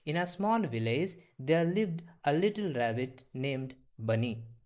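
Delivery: very slow English sentence; slow model reading. Shown as a demonstration. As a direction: read it slowly so they repeat. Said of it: "तो कैसे प्रोनाउंसिएट करोगे". (बहुत धीमा पढ़ना)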